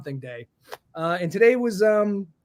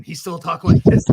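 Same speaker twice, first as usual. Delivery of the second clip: louder, rasping mock Batman growl; Christian Bale Batman voice; 8 dB louder than usual. Host mocking Christian Bale's Batman voice, louder mock growl. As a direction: imitate a smoker's-lung Batman rasp, hammed up. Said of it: "My only issue is that he talked like this".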